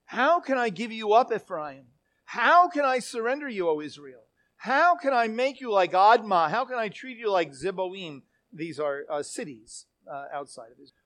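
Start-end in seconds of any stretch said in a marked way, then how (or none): 0.1-8.2 raised, emphatic pleading questions; impassioned, anguished appeal; dramatic, emotional lament. Acted. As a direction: cry out each question, dropping on the name. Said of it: "quite dramatic and quite emotional".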